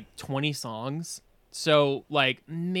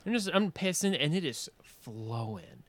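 usual speaking voice

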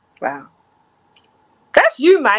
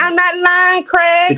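high, louder protest; insistent denial; 8 semitones higher, 4 dB louder, slower than usual. Real, not acted. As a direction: push back hard on the accusation. Denying accusation, pitch raised.

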